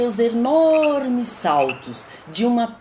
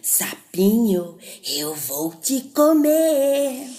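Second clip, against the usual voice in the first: a touch of gleeful snake, slow on comer; happy snake. Acted. Snake greeting the frog as breakfast, mildly gleeful. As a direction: savour the threat, lightly voiced. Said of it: "toda feliz disse".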